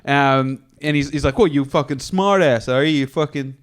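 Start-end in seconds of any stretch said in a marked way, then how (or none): 1.4-3.5 lightly put-on New York accent; a hint of tough New York accent; mock New York. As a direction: imitate a confrontational New Yorker. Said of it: "he got real New York".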